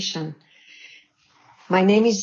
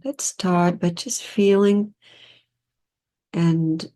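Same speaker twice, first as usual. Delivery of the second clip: guided meditation. Real, not acted.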